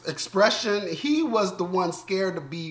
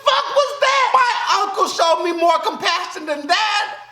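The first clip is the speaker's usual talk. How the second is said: much higher, indignant shouting at the show; outraged rant; 9 semitones higher than usual. Real, not acted. Viewer ranting at the finale, shouting in outrage. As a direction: yell in real disbelief at the screen.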